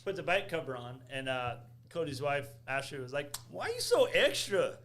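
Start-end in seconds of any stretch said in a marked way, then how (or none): 3.5-4.8 higher-pitched imitation of her Black vernacular accent; imitated Black vernacular. Imitating a friend's wife teasing about the bike cover, put-on Black vernacular. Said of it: "say that like you were black".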